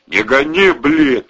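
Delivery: loud irritated snap; rough snapped retort; snapping back. Acted. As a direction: bite back at the teasing. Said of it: "огрызнулся Валерий".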